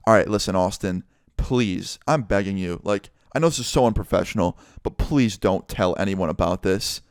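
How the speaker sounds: a teacher quietly begging a student, lightly voiced; pleading softly. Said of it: "he finally just breaks his angry character".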